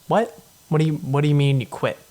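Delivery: the guards can't believe the pope quit; shocked guards. Retold or imitated. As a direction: blurt it out fast in mock shock.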